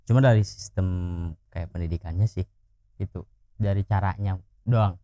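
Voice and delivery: talking around a lit cigarette; cigarette in mouth. Real, not acted. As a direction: speak with a cigarette between the lips. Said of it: "Boleh ini sambil ngerokok boleh ya?".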